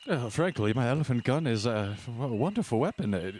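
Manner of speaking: gentleman defending his weapon, lilting; genteel husband character. Acted. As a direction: protest politely in the old-fashioned gentleman's voice.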